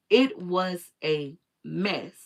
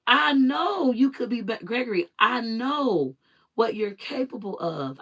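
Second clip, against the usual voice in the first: retold insistence; 4 semitones higher than usual. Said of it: "And I'm like".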